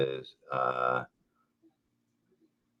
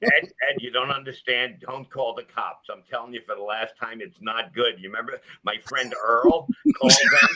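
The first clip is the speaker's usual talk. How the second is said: lightly voiced deer, higher and begging; pleading deer; 4 semitones higher than usual. The deer begging Ed not to call cops, mock pleading. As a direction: beg Ed as the doomed deer. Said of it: "But I'm a fucking deer".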